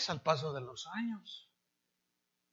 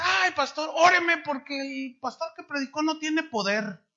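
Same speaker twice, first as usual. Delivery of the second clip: put-on higher, louder little-old-lady whine; hammed-up old lady plea; mock old woman; 9 semitones higher, 4 dB louder than usual. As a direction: imitate the old lady complaining to the pastor. Old woman mocked in high voice.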